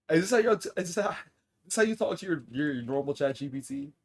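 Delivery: high, loud mock-outraged scolding; exasperated, loud and high-pitched; incredulous scold. Real, not acted. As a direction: scold the chat in playful disbelief. Scolding chat jokingly.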